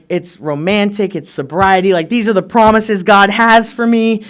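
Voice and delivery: gushing, with drawn-out key words; excited. Retold or imitated. Retelling the pitch for a sober Mexico vacation, excited. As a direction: build in energy as if selling a dream. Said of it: "call my sponsor all excited".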